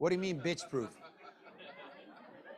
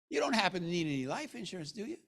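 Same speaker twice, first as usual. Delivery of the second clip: casual sales question; 5 dB quieter, faster than usual. Shown as a demonstration. Demonstrates a door-to-door sales question.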